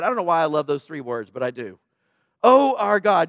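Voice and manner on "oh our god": a touch of desperation, pleading to God; desperate prayer. Retold or imitated. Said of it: "Just hear the desperateness in the praise".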